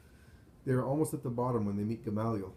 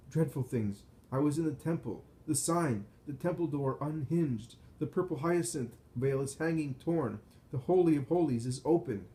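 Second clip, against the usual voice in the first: frightened; 3 semitones higher than usual. Acted. Terrified report of temple signs.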